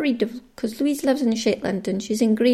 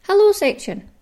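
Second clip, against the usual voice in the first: big high called-out title; bright jingle-style announcement of hello section; announcer call; 11 semitones higher, 5 dB louder than usual. Acted. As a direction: sing out the segment name.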